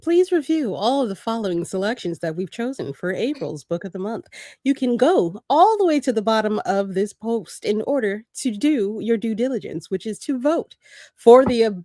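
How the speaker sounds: polite airline announcement voice; flight attendant voice. Pretend. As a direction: read it like a cabin announcement. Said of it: "flight attendant voice".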